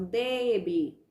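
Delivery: DEBE drawn out on its first syllable, DE; slow "debe", lingering on DE; calling-out stress. Shown as a demonstration. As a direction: stretch the DE of "debe" as if calling across the street. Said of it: "como se vocês estivessem chamando".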